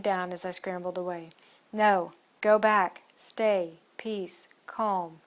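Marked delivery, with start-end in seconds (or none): 1.7-5.2 loud at first, then softening and slowing; calming command. Acted. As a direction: settle the crowd down like a handler. Calming the zombie crowd.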